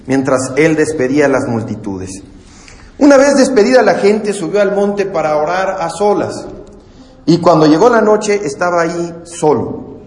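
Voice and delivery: measured, earnest Bible reading to the congregation; scripture reading. Acted. Preacher reading Matthew to his church, solemn reading.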